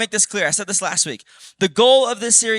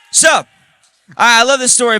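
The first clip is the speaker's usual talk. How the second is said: excited shout; 4 semitones higher, 8 dB louder, faster than usual. Real, not acted. Crowd hype before the story.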